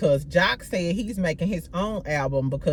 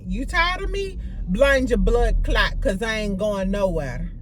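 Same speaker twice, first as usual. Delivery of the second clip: put-on Jamaican accent; a singer's accent. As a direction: drag out the patois in an imitated Jamaican accent. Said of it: "trying to do it in her accent".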